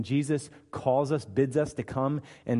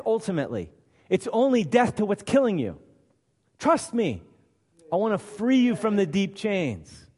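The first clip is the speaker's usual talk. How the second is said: liberator speaking. Acted. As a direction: reassure them as the liberator.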